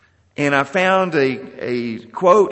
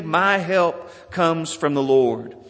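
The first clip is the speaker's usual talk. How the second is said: slow, emphatic declaration of "My help comes from the Lord"; slower than usual. Retold or imitated. Preacher quoting the psalmist's answer "My help comes from the Lord", emphatic. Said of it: "And he says emphatically".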